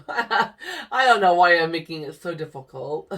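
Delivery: light laughter running through the words; laughing it off. Real, not acted. Laughing at her own fuss over which name to stitch. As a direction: chuckle through it, embarrassed at herself.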